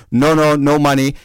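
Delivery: lightly imitated European accent. Stranger refusing payment, European accent. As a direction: wave it off in a Russian-like accent. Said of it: "a heavy European-ish accent".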